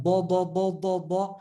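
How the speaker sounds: "Ba" as a heavy D, tongue curved; quick run of trapped "Ba"; heavy Dad. Shown as a demonstration. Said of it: "Can you hear that?".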